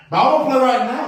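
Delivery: put-on high, loud kid pleading to play; begging like a small child; whiny little kid. Godson begging to play outside, in a loud, high, whiny child voice.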